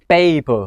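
PAPER with a long, drawn-out "ay"; long vowel paper. Shown as a demonstration. Teacher showing students the word for paper, long-vowel "paper". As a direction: stretch the first vowel of paper. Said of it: "คำว่ากระดาษออกเสียงเป็น".

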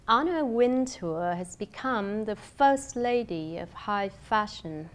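slow, punched key words, "Anna Wintour", "first lady"; deliberate emphasis on "first lady"; word and syllable stress. Shown as a demonstration. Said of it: "cả biện pháp nhấn từ lẫn nhấn âm".

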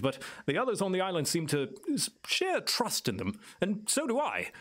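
lightly voiced island native, musing and lilting; knowing island elder. Island native tells visitors about the guardian, musing and lightly in character. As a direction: explain it as a well-spoken local guide. Game master plays Clyde.

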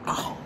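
sharp yelp of pain from a stubbed toe; real hurt ow. Real, not acted. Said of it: "I just stubbed my toe".

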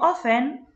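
"often" without the t, as "offen"; silent T. Shown as a demonstration. Teacher reading vocabulary to pupils, "often" with silent t. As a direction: drop the t when saying "often". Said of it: "التي مش هنطقها".

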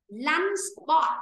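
"spot" ending in t, never a k; clear final t. Shown as a demonstration. Teacher corrects a student, "spot" with a clear t. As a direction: model "lunch spot" with open o and final t. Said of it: "chứ phải bốc".

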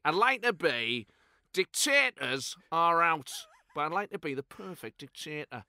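slow, deliberate Clough voice; lightly done Brian Clough; Clough impression. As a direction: savour each word like Clough. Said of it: "I always try and get Clough".

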